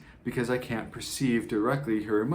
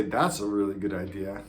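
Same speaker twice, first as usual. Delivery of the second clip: That's a really good idea, dry and falling; sarcastic; 2 semitones lower than usual. Shown as a demonstration. Coach showing the same words sarcastically. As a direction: say it like it's stupid. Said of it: "one means that's a stupid idea".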